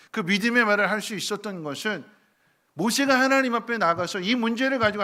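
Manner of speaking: loud, high preaching voice; preaching at full force. Acted. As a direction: preach it with rising fervour. (열정적으로 외치는 설교)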